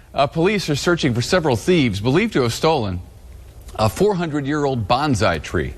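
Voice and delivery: stifling giggles mid-read; trying not to laugh. Real, not acted. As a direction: newsreader fighting back laughter. Newscaster cracking up on air.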